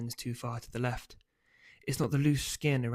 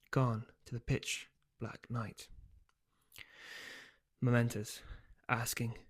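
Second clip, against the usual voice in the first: story narration. A narrator's reading. Author reads novel aloud.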